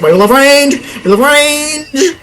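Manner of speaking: hammed-up Russian accent, pitched high; rally the range boys in a mock Russian accent; playful fake Russian accent cheering on the range units. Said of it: "I was Russian".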